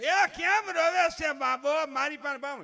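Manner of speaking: high, very loud, drawn-out wail; hammed-up doting grandmother. Grandmother demanding the crying baby, hammed-up high loud wail. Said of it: "તા તો grand mother".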